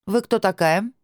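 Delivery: sharp rising demand from a stranger at the door; demanding question. A narrator's reading. Stranger at the door demands who she is, suspiciously rising. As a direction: pitch it up, suspicious and pushy. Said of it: "продолжала вопрошать женщина".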